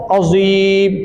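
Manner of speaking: अज़ीम read with a thick, full ज़; full-voiced reading. Shown as a demonstration. Teacher prompting the student to say अज़ीम with a heavy ज़. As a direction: round out the ज़ in अज़ीम. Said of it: "कैसे पढ़ेंगे?".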